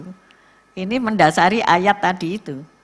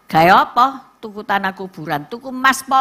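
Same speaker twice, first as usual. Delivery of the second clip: husband scoffing; 4 dB louder than usual. Retold or imitated. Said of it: "Suamiku sing duwe duit ngomong ngene".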